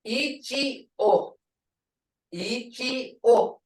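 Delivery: Ichi-o spelled out syllable by syllable; Ichi-o split into clear syllables. Shown as a demonstration. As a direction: break Ichi-o into parts. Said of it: "Ichi-o is a deer".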